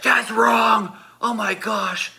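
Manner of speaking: high, pained protest; hammed-up indignant whine; mock outrage. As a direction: imitate a sore friend complaining. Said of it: "his rear was on fire".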